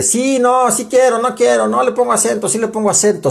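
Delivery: high, singsong back-and-forth wavering; mock indecisive bickering. Teacher mimicking the tug-of-war over accent rules, mock indecisive.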